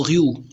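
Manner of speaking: "रियू" with throaty r, like ghee-yoo; French pronunciation. Shown as a demonstration. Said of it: "in actual French में". ("रियू" French ढंग से, गले के र के साथ)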